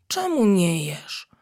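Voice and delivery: slow, gentle worried question; caring. Acted. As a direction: kind teacher asking the crying monkey why she won't eat. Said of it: "z troską".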